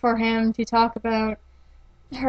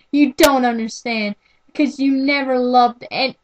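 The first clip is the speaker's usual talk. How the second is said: crying out; 2 semitones higher, 4 dB louder than usual. Acted.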